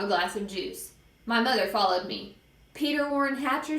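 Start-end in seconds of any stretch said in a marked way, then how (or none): 2.7-3.8 higher-pitched full-name reprimand; mother's disapproving summons; stern scolding. Acted. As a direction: call the child to account.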